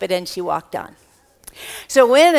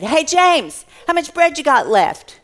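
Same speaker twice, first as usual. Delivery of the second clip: calling out; 5 semitones higher, 4 dB louder than usual. Acted. Jesus calls out to James.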